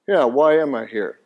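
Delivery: a listener's droll, doubting Why am I here; mock weary question. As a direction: lightly imitate a bored skeptic asking "why am I here?". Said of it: "it sounds like you're saying".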